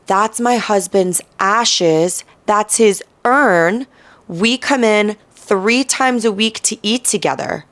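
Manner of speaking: lightly voiced older woman explaining the urn; mock older woman. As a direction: play the calm widow, slowly.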